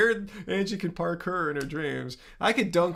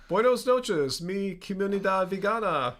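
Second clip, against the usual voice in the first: Spanish. Shown as a demonstration. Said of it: "I spoke a lot of Spanish".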